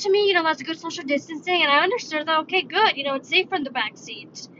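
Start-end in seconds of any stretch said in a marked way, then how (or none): 3.0-4.5 hushed aside; whispering. Real, not acted. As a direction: drop to a whisper. Quiet aside.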